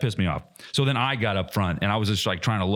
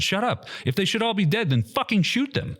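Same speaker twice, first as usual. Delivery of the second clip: retold angry command; 11 semitones higher than usual.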